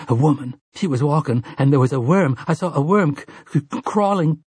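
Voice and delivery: can barely get the word out; stammering horror. Acted. Susanna telling Eddie about the worm, stammering in horror.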